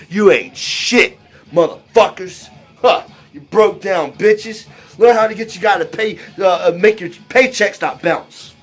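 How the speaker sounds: sneering taunt. Retold or imitated. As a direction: sneer it down from the balcony. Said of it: "sneering like".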